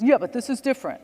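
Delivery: put-on Long Island accent. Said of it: "I'm trying to do the accent".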